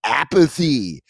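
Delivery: lightly caricatured American ad voice; mock American bro. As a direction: sell it like a boastful bro, lightly. Parody American drink advert.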